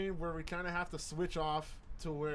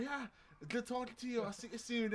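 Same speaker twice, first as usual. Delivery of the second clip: higher imitated British goodbye; British accent; 5 semitones higher, 3 dB quieter than usual. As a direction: imitate a British customer leaving. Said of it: "I can do a decent British accent".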